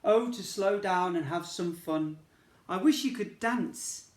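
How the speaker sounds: a lightly voiced weary racehorse; tired horse wish. Racehorse begging the unicorn to dance, pleading. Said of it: "he said".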